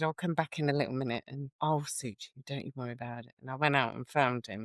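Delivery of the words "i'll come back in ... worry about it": much softer, gentle promise; soft reassurance. Retold or imitated. Nurse retelling promising a patient she'll be back, soft and gentle. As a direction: quietly settle her nerves. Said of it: "I said".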